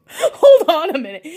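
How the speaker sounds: barely holding it together; stifled laughter. Retold or imitated. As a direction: hold back a laugh and dash out. Mom about to burst laughing.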